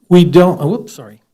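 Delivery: talking through a face mask; muffled, covered mouth. Real, not acted. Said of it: "talking through my mask".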